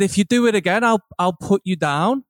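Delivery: imitated European old man making a threat; European accent. Old man threatening a driver in the lift, European accent. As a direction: put on his vaguely European accent. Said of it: "some kind of European accent".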